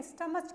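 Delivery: स्टमच with a ch sound at the end; teacher mimicking the common mistake; wrong pronunciation. Shown as a demonstration. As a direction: say स्टमच the way some kids wrongly do. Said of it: "but स्टमच नहीं होता".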